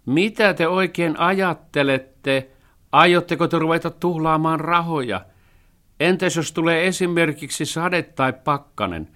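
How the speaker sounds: the cat shouts down their spending; outraged cat. A narrator's reading. (suuttunut kissa huutaa)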